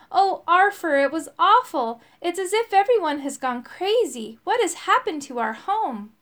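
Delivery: high, loud dismay; pleading, alarmed lament; distressed. A narrator's reading. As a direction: pour out the bad news, upset. Frightened elf tells of trouble.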